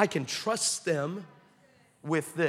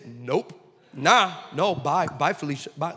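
dismissive brush-off; 3 semitones lower than usual. Retold or imitated. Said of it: "What they're really saying is".

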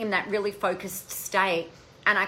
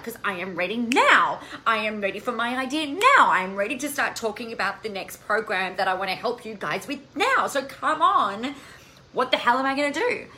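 retold frustration; 3 semitones higher than usual. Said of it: "Why am I getting so frustrated".

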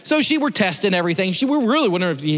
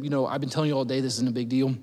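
tearful; 3 semitones lower, 4 dB quieter, faster than usual. Retold or imitated. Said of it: "our social worker's in tears".

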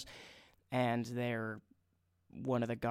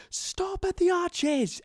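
loud, high barked command; guard's scream; 7 dB louder, slower than usual. Retold or imitated. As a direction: scream it like a guard stopping a stranger. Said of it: "turns to the guy and screams".

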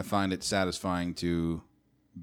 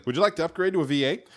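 pop-up ad voice; 9 semitones higher, 4 dB louder, faster than usual. Pretend. Voicing car pop-up ad.

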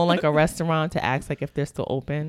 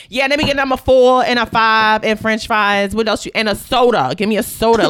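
louder, blunt drive-thru order; mock gruff order; 4 semitones higher, 9 dB louder than usual. Shown as a demonstration. Contrasting a blunt order at the drive-thru, louder. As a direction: bark out a fast-food order. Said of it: "you'd be like".

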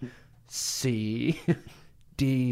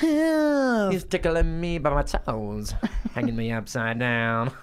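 being tickled; 4 semitones higher, 3 dB louder, slower than usual. Pretend.

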